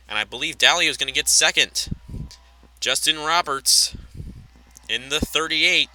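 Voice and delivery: steady, projected race commentary; live race play-by-play. Pretend. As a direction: call the pit stops like a race announcer.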